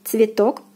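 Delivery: цветок with full "o"; careful model цветок for learners; stressed O. Shown as a demonstration. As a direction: say цветок as "tsvi-TOK". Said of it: "is pronounced as in the alphabet".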